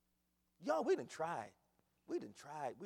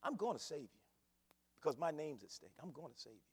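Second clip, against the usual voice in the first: God's promise; 2 semitones lower, 4 dB quieter than usual. Acted. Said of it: "Because he says".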